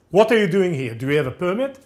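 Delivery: mildly stern official questioning, loud at the start; stern challenge. Retold or imitated. Local gendarme questioning a stranger on the hill, stern challenge. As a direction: challenge the stranger with a firm opening. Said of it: "looks at me very sternly and says".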